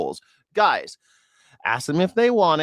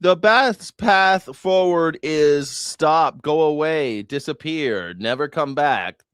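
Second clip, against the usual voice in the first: slow and drawn out, scornful; sarcastic answer to the candidate's statement; mocking retort; much slower than usual. Real, not acted. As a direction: spell it out to him.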